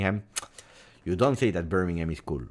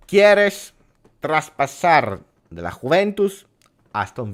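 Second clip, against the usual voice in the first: acted Spanish dialogue. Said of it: "This was the discussion in Spanish".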